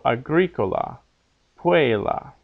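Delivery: aGRIcola, PUella, stressed third from the end; short second-last syllable. Shown as a demonstration. Teacher repeating the examples, agricola, puella stressed third from last. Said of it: "second last syllable is short".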